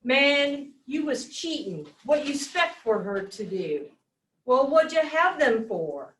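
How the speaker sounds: lightly acted Mississippi dialect; Southern dialect. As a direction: read the character's lines in Southern dialect. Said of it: "So example of dialect".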